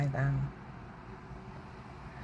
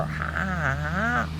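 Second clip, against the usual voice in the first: mimicked laughter; 2 semitones higher, 3 dB louder, much slower than usual. Laugh acted after the retort.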